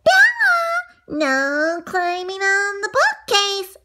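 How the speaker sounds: high, loud scolding mom voice. Retold or imitated. Mom scolding her climbing daughter, high and loud. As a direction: call out a stern warning to a child. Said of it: "you know what my mom said?".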